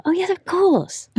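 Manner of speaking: high, slow "oh yes, of course" of dawning surprise; sudden realisation. Retold or imitated. Narrator recalling her surprise at the Yorkshire accent, mock dawning realisation. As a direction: replay the moment it clicked, amused. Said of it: "and thought".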